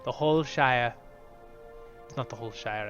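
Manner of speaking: ordinary talk, nothing marked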